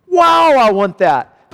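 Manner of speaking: high, drawn-out exclamation of longing; awed longing. Acted. Believer reading of the glory to come, awed longing. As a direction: stretch the wow out, high and eager.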